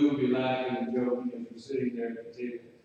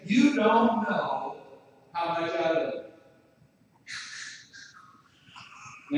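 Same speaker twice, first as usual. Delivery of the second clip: tender. Retold or imitated. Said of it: "she would frequently say".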